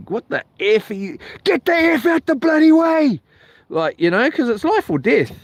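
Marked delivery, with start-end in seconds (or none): 0.1-3.2 yelling at the guy. Retold or imitated. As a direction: roar it from the branches. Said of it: "I had to yell at the guy".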